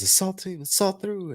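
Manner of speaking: imitating the small squad leader yelling her order; mimicking tiny squad leader. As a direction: squeak out the order like a tiny girl. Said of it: "And she says".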